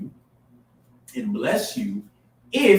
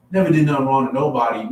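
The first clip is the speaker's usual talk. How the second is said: mocking eulogy cliché; 6 dB louder, faster than usual. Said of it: "this is what black people do".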